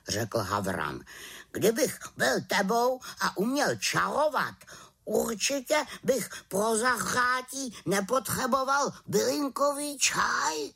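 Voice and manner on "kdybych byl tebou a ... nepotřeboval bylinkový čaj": high, lecturing raven; know-it-all raven. Acted. Raven lectures the witch about magic, high.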